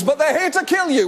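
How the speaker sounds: high mock-alarm cry; villager yelling. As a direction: warn the town like a hammed-up angry villager.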